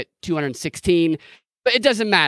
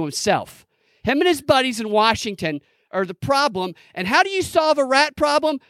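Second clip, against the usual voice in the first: lightly voiced politician, building higher; mock campaign speech; 5 semitones higher than usual. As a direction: start calm, then rise into a rally cry. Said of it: "He needs to say".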